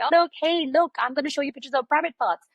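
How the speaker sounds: pretend bad guy. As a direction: put on a playful bad-guy act for a child. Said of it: "You pretend to be the bad guy".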